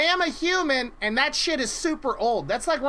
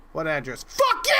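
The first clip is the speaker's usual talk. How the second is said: mock angry yell; 7 semitones lower than usual. Mocking the angry car seller.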